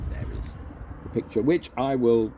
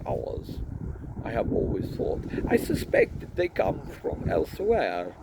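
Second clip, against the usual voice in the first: higher, lightly voiced musing inventor; Leonard conversational; 4 semitones higher than usual. Leonard explaining dragons to Ponder, musing. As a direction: muse like a gentle genius.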